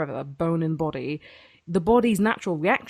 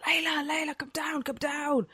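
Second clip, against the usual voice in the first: whispered call; 9 semitones higher, 6 dB quieter than usual. Retold or imitated. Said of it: "I'm screaming".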